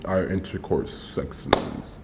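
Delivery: quick slow whisper of a correction; whispered aside. Real, not acted. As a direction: drop to a whisper for the awkward word. Embarrassed correction, muttered aside.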